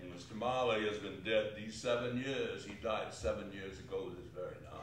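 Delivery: brusque. Acted. Scrooge curtly telling the gentlemen Marley is dead. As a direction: rattle it off coldly.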